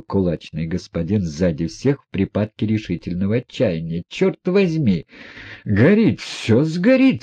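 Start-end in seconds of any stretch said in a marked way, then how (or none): 4.1-7.2 alarmed outcry. A narrator's reading. Fist-fighter crying out at the burning money, high alarmed cry. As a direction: cry out as the flames catch. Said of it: "вскричал он".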